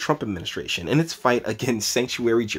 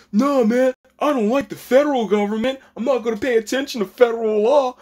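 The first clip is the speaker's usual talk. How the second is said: high, dismissive mock voice; mocking state officials; 13 semitones higher, 5 dB louder than usual. Vlogger mocking state government defying federal law, high and dismissive. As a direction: play the defiant official, dripping with scorn.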